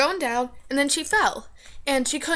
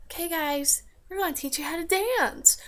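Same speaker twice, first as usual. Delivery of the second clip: lightly voiced old dance teacher, pitched up; imitated old people; 4 semitones higher than usual. Old people announcing a dance lesson, lightly imitated. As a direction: mimic an elderly instructor a little. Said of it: "these old people came in and were all like".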